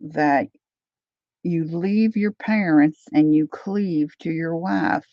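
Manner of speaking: lightly imitated Tennessee drawl; Leanne Morgan. Comedian quoting her son to his mama, light Tennessee drawl. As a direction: retell it with a Southern twang. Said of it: "she's got this Tennessee drawl".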